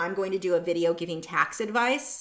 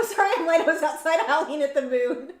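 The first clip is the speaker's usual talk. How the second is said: laughing; 6 semitones higher, 6 dB louder than usual. Real, not acted. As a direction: read it through real laughter. Laughing while reading a funny chat.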